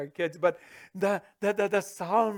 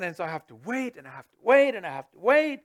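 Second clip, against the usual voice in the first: louder, pressed repeat; exasperated louder repeat; building emphasis; 7 dB louder, faster than usual. Real, not acted. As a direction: push harder each time.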